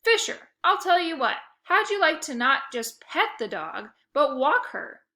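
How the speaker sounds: loud, eager huckster pitch; sales pitch. A narrator's reading. Otto pitches dog walking to Fisher, eager salesman. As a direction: sell it like a carnival barker.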